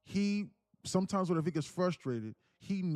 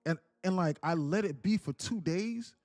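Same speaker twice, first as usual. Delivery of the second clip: raised, higher complaining rant of a tired stepdad; imitating angry stepfather; 6 semitones higher than usual. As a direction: act out the stepdad coming home fed up and yelling at the kids. Imitating stepfather yelling at family.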